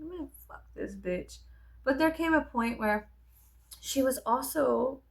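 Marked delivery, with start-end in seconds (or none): 0.0-1.4 muttered curse. Retold or imitated. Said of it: "I was just like".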